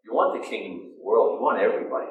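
a hint of a low coaxing tempter; tempter's voice. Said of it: "that same voice says".

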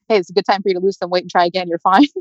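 quick, lightly imitated breezy consolation; seemingly fine. Mom consoling daughter after miscarriage, mock breezy. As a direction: play down the loss, half-joking. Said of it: "she seemed fine".

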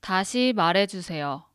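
다시 말해주세요 said clearly as a model phrase; Korean phrase demo. Shown as a demonstration. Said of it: "just say".

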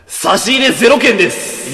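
slow, weighty delivery; slow grave announcement. Acted. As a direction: drop the news slowly and heavily.

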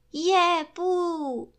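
high, loud cheer; everyone's excited cry. A narrator's reading. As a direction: cheer out to a friend. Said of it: "zvolali všichni".

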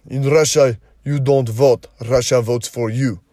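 botched attempt at a Russian accent. Host jokes about Russia's election, in a botched Russian accent. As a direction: put on a rough, joking Russian accent. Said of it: "that was my best Russian accent".

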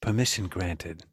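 mock grand. Repeats the phrase lower.

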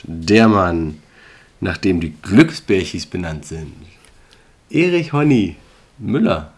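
solemn, slow showmaster introduction; announcer intro. Acted. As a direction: present the guest like a gala host. (feierliche Moderatorenansage)

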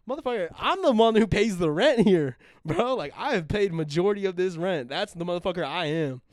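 high, loud angry rant at the roommate; retold furious yell. Yelling back at the roommate over unpaid rent, high and loud. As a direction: yell it like you've paid all the rent.

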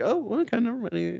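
high, falling-off oh well, never mind; mock surprise. Reader sees Cobra make it after all, high surprised then deflating. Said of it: "I'm like".

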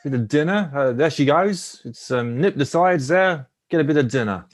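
attempted Kiwi accent, feeling it out; New Zealand accent. Player hunting for a line ending in dinner, New Zealand accent. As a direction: try New Zealand vowels on each phrase. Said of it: "your best New Zealand accent".

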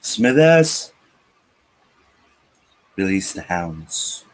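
a hint of a cartoon tycoon; mock villain boss. Ranter playing cartoon tycoon ordering his servant, mock villain.

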